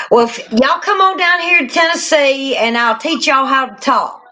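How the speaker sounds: Tennessee accent demo. Shown as a demonstration. Host inviting viewers south, in a playful Tennessee accent. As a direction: lay the Tennessee accent on thick to teach it. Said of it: "everybody loves my accent".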